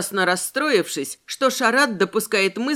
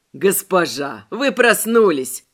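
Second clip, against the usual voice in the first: joyful greeting; 3 dB louder, slower than usual. Acted. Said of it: "радостно улыбнулся незнакомец".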